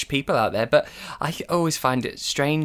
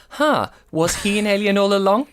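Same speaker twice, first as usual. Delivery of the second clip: mock wondering, pitched up; puzzled realization; 5 semitones higher, 3 dB louder than usual. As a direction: act out a sudden puzzled suspicion. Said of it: "an added element of going".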